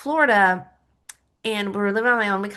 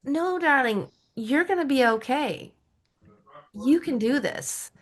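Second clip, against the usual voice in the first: soothing herself; 5 semitones higher than usual. Retold or imitated. Reassuring herself after feeling lost, gently soothing. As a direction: talk to yourself like a loved one. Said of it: "I was like".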